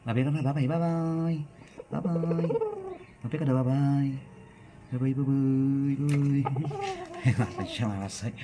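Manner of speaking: sing-song goodbye. Real, not acted. Waving the chickens goodbye.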